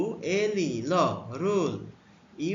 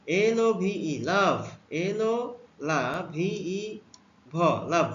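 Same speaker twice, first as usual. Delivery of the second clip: slow demo; slower than usual. Shown as a demonstration. Teacher slowly blending letters into a word for pupils. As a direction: spell এলওভিই slowly into লাভ. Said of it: "ও এর উচ্চারণ আ হয়েছে".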